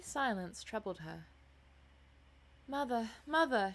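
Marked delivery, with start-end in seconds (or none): 2.7-3.7 higher, louder call to mother; crying out. A narrator's reading. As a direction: cry out to your mother. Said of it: "she cried".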